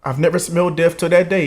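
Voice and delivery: fighting tears as he remembers; holding back tears. Real, not acted. Son telling viewers how he found his dad, near tears. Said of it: "excuse my tears".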